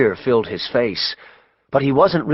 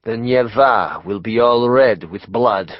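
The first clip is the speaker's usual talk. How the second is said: prophetic mystic; 2 semitones lower, slower than usual. Acted. Rasputin's slow prophecy.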